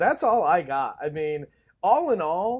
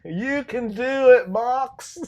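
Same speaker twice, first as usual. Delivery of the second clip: cheering coach; 8 semitones higher, 7 dB louder, slower than usual. Retold or imitated. Quoting movie's inspirational line.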